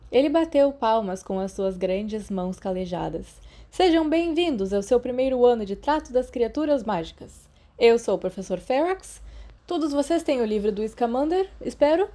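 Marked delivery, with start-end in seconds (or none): 3.7-12.1 lightly voiced cheerful teacher, a bit higher; hearty professor. Professor welcoming first years, lightly voiced and hearty. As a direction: welcome the class like a jolly outdoorsman.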